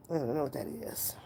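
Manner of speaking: fully whispered, no voice. Real, not acted. Streamer repeating her brush-off to Josh, whispered. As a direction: breathe it out as a whisper.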